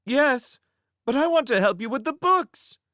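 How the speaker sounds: high, eager cry. A narrator's reading. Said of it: "Charmaine cried out".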